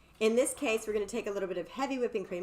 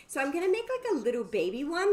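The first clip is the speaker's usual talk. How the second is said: coy tease; 6 semitones higher, 5 dB louder than usual. Acted. Coy naughty teaser to viewers.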